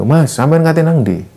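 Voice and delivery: lightly voiced old man hailing the hikers; a hint of an old villager asking where they're headed; old villager calling out.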